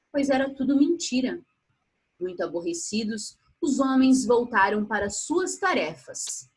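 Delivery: put-on storyteller reading to children; story narration. A narrator's reading. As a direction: tell the fable aloud to kids. Reads a fable aloud.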